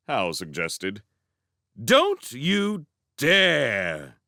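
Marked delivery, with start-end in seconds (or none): 1.8-4.2 very slow, loud warning; stern warning. A narrator's reading. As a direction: bite off each word as a threat. Sophie warns Howl.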